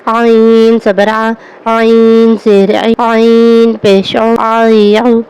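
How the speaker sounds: slow, throaty ع in آ ای او. Shown as a demonstration. Teacher contrasting ع with the plain ہمزہ. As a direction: squeeze the ع of ای from the throat, slowly. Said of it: "مخارج میں فرق کرنا ہے".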